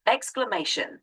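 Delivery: "exclamation" with the stress on MAY; stress on third syllable. Shown as a demonstration. Tutor repeating it for a learner, stress on MAY in "exclamation". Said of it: "The emphasis is on the third syllable".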